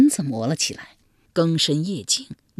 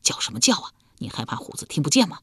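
fast, hushed, panicked whisper; faster than usual. Acted. Husband hushing his screaming wife, fast panicked whisper. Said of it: "一脸惊慌道".

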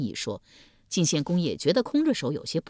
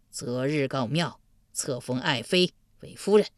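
duke; 3 semitones lower than usual. Acted. Duke decides.

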